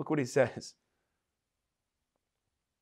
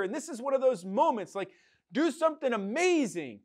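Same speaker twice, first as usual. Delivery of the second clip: demanding prayer; 5 semitones higher than usual. Retold or imitated. Mocking believers demanding God show up.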